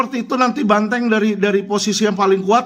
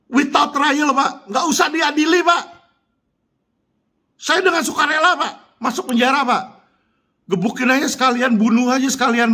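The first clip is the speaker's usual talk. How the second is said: raised pitch, heated defiance; defiant dare; 5 semitones higher than usual. Real, not acted. Speaker daring an official to jail him without trial, defiant. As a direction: challenge him outright, voice pitched up.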